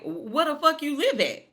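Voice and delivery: high, loud fatherly yell; a mock-furious dad shouting at his son; angry shout. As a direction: bark it at the kid. Marvin yelling at Kanan.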